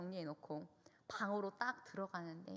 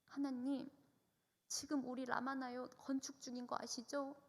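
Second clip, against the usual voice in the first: retold prayer in a higher voice; pleading prayer; 4 semitones higher than usual. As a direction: petition God earnestly, pitched up. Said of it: "저는 이 소원을 주님께 구했어요".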